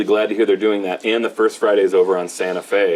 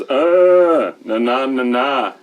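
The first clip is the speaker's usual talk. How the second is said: high, punchy talking doll voice; pull string toy; 5 semitones higher, 4 dB louder, much slower than usual. Retold or imitated. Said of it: "when you pull it, he says".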